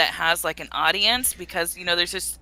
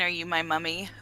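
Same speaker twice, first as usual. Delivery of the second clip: very soft, low imitation of a ghostly child; creepy child whisper; 4 semitones lower, 11 dB quieter than usual. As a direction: murmur it like a spooky lost child. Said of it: "like, whispering".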